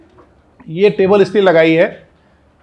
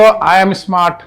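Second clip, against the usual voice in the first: loud affirmation; 5 dB louder, much slower than usual. Shown as a demonstration. Teacher leads class in loud self-affirmation. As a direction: say it out loud with conviction. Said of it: "जोर से बोलेंगे और feel करेंगे".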